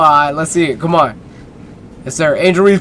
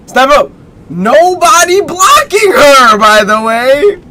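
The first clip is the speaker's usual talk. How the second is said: mock announcer repeat; 8 semitones higher, 6 dB louder than usual. Shown as a demonstration. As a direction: stretch it out like a hype call. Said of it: "first said plainly".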